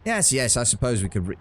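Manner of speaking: an Australian accent attempt that drifts into vaguely British; Australian slipping into British. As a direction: try Australian, but let it slide toward British. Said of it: "it keeps slipping into some vaguely British accent".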